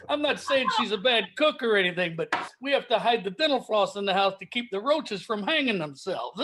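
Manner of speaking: lightly voiced put-upon comic; hint of an old-school club comic; Rodney impression. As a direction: trade one-liners as a no-respect comedian. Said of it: "is it time for dueling Rodneys".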